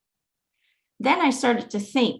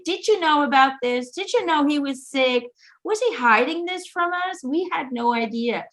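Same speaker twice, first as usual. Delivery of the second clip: imitating insistent questioning, pitched higher; 5 semitones higher than usual. Mom calling the doctor about dad's illness, questioning. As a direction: press for answers in a retold, higher voice. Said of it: "mom was questioning everything".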